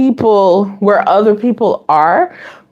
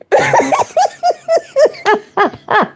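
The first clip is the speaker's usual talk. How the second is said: big laugh. Real, not acted.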